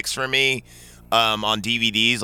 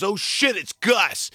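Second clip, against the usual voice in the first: much higher, panicked blurt; startled kid; 8 semitones higher, slower than usual. Retold or imitated. Bully spotting the scary dad, a high panicked blurt. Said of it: "then he goes".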